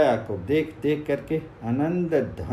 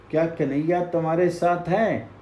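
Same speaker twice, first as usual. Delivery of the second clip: quick, eager asking; eager question; 4 semitones higher than usual. Acted. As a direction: rush the question out to the hidden voice. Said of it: "फिर पूछा".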